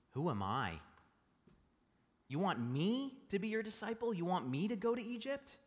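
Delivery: a lightly voiced Moses protesting; doubtful Moses. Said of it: "he says to God".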